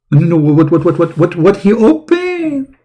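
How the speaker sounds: high mock squeal.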